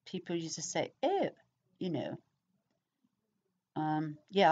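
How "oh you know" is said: lightly put-on posh English accent; a brief taste of a posh accent. Shown as a demonstration. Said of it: "posh accent".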